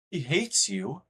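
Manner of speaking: high, slow, startled question after a gasp; shocked gasp. Real, not acted. Streamer reacts to a chat message, gasping and incredulous. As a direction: play the disbelief big.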